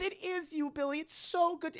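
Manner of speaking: high-pitched gushing relief; acted grandmotherly joy; overjoyed grandma. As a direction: coo in delight at a spirit's answer. Grandmother overjoyed cup moved.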